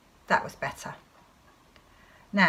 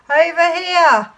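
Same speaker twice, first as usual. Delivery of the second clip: high, loud, drawn-out call; long holler to guide someone closer; crying out; 11 semitones higher, 12 dB louder, slower than usual. Acted. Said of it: "the voice cried out".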